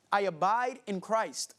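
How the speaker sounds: slow English quote; English phrase. Retold or imitated. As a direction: say it slowly in English. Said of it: "la palabra que ella utilizó en inglés es". (frase en inglés, lenta)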